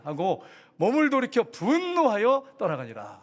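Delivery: slow, emphatic Bible reading; scripture reading. A narrator's reading. Pastor reading Naaman's complaint to the congregation, emphatic recitation. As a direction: draw out the verse, pressing the indignant words.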